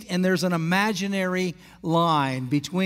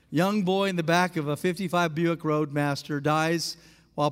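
mock obituary; 4 semitones lower, 3 dB quieter than usual. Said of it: "imagine the obituary".

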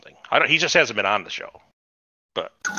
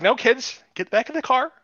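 mock dad voice; 12 semitones higher than usual. Superman dad ordering kids.

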